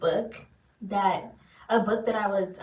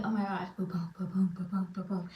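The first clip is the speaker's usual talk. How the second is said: whispered boom boom of a racing heart; softer mock heartbeat; nervous heartbeat whisper; 6 dB quieter, faster than usual. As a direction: whisper the pounding nerves. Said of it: "I'm like".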